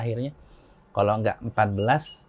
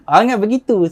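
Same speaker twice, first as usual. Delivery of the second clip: high, loud retold refusal; mock indignant objection; 9 semitones higher, 10 dB louder than usual. Brother refusing to end the debate, mock indignant. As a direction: cut in to object, acted out.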